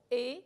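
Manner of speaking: "he" said as a firm, stressed e, silent h. Shown as a demonstration. Teacher showing the past ending for yo, stressed e in "he". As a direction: set "he" apart as an accented ending. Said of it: "con acento".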